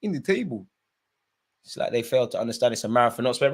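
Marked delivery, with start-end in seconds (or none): 0.0-0.6 high-pitched mock fan excitement; gushing Spurs fans. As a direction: mimic overexcited fans in a higher voice. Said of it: "Spurs fans probably got their drafts ready".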